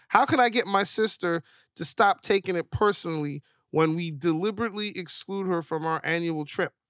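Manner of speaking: usual speaking voice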